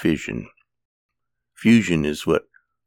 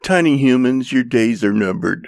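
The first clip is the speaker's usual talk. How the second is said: higher, louder mock villain threat; menacing cat voice; 8 semitones higher, 6 dB louder than usual. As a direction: deliver it like an evil cat plotting. Joke punchline, cat's menacing voice.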